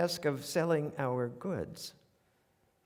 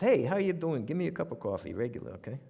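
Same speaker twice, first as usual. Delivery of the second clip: put-on New York accent; 2 semitones higher, faster than usual. Ordering coffee on landing in New York, New York accent. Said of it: "I reverted to my native accent".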